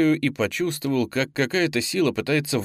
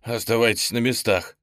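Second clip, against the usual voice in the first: ordinary delivery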